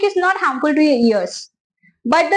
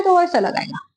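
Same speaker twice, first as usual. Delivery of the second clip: voicing a small flute with a slightly higher tone; teacher shows how a small flute sounds, a touch higher; 2 semitones higher than usual. Shown as a demonstration. Teacher demonstrating a small flute to students, slightly higher tone. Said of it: "अगर वो flute बहुत छोटा है".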